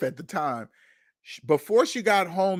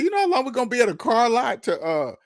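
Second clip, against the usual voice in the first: annoyed complaint; 5 semitones higher, 3 dB louder, faster than usual. Retold or imitated. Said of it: "I said".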